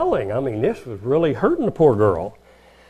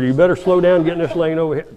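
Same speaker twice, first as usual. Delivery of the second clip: mate's warning; 5 semitones higher, 4 dB louder, faster than usual. Retold or imitated. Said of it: "your mate will say".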